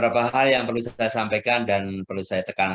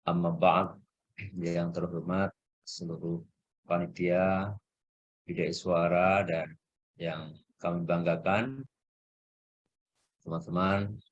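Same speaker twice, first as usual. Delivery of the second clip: breaking up space radio; 3 semitones lower, 4 dB quieter than usual. Real, not acted. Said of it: "Sepertinya sinyal Bapak Ibu, nggih, lagi bermasalah".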